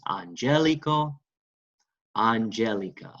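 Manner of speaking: "Angelico", "angelica" with GEL stressed; third-to-last stress. Shown as a demonstration. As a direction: model "Angelico, angelica" deliberately, leaning on GEL. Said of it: "Remember, third to last".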